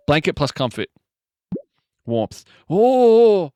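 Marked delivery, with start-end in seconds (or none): 2.7-3.5 a high, loud held "Oh"; surprised oh. Real, not acted. Streamer reacts in surprise to blanket plus warmth. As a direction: gasp of glad surprise. Delighted by a new result.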